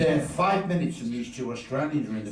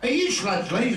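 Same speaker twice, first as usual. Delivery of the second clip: high excited fan voice; 12 semitones higher than usual. Retold or imitated. Australian fan accosting comedian.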